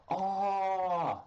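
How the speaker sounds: imitating crowd ooh. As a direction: mimic the crowd's shocked ooh. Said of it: "Crowd goes".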